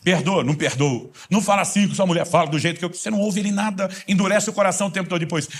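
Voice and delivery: full-force pulpit preaching; fiery preaching. Acted. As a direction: drive it home to the congregation.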